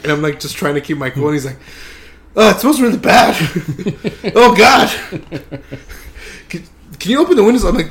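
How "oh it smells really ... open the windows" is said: acted disgust. Friend disgusted by smell, acted.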